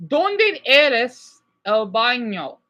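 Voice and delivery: "Donde es el baño?" spelled out very slowly, syllable by syllable; very slow Spanish repeat. Shown as a demonstration. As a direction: drag out "Donde es el baño?" so they catch it. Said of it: "everyone listen".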